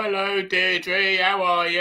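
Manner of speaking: slow, high mock old-lady voice; old lady reply. Replying to an old neighbour, slow high mock old-lady voice. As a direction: draw it out like a pensioner. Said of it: "and you go".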